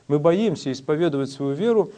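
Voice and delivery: usual speaking voice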